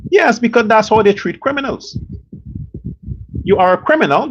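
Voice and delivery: ordinary delivery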